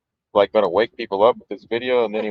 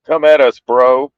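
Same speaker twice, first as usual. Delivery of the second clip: louder laid-back surfer dude; 5 dB louder, slower than usual. Retold or imitated. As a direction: toss it off like a beach bum. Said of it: "that sounds like a surfer".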